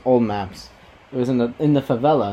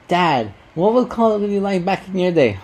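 put-on higher curious child; kid voice; 7 semitones higher than usual. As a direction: ask like a young kid. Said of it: "they ask me".

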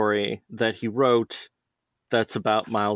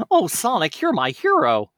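exclaimed; 9 semitones higher, 4 dB louder than usual. Acted. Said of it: "exclaimed Miles".

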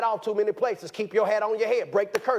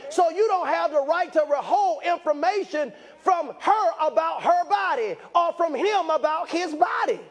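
preaching; 7 semitones higher than usual. Real, not acted. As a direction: preach it full out, raised and urgent. Preaching at full force.

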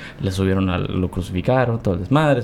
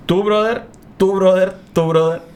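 picking a team; 5 semitones higher than usual. Pretend. Jesus picking his team.

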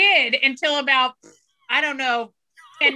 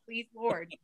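mock prayer. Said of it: "I thought to myself".

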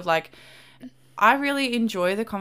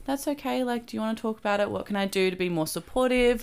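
gentle supportive; 4 semitones higher than usual. Retold or imitated. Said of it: "be like".

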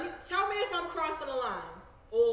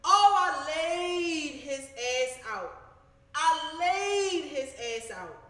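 slow, louder heated retelling; getting mad; 3 semitones higher, 5 dB louder, much slower than usual. Real, not acted. Venting to viewers, getting mad all over again. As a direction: relive the anger, dragging it out. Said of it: "I'm getting mad all over thinking about it".

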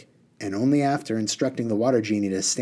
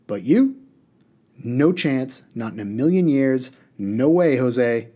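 emphatic refusing genie, louder; 4 semitones higher, 3 dB louder than usual. Acted. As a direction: genie flatly refusing a boy. Reader voices the refusing genie.

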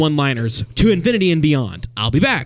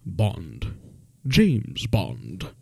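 low, soft and smooth; suave Bond; 7 semitones lower, 8 dB quieter, much slower than usual. Acted. Introducing himself as Bond, low and suave. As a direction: purr it like a cool spy. Quoting Sean Connery's Bond line.

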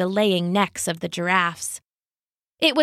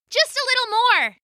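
cry out. Acted. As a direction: call out to urge them on. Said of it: "Kaya cried".

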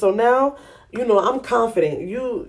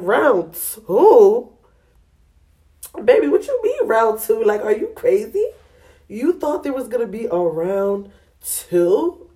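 mock incredulity; 3 semitones higher than usual. To homeboy Jeff about round two, scoffing disbelief. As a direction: scoff at the very idea. Mocking Jeff's question.

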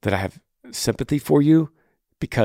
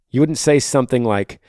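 ordinary talk, nothing marked

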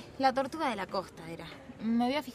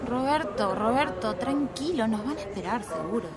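urgent calming; 5 dB louder than usual. Acted. Wife tells frantic husband calm down.

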